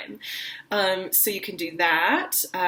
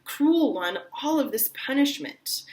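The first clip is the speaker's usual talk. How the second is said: much higher, fast protest; rushed cry; 6 semitones higher than usual. Shown as a demonstration. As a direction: hurl it after her.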